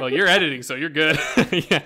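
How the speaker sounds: laughing while teasing. Real, not acted. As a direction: chuckle through the words. Teasing cohost who forgot editing.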